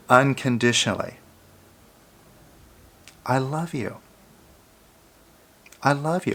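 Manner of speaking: tender affirmation. Shown as a demonstration. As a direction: say it like you truly mean it, gently. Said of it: "but try it".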